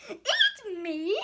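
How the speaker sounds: high, loud outraged cry; shriek. Acted. Donut Arnie shrieks at being eaten. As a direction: shriek it in disbelief. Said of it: "Arnie shrieked".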